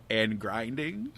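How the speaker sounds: slow, low, weary drag on grinding; weary drawn-out. Retold or imitated. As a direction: let grinding sag low and slow, worn out. Dragging out endless grinding.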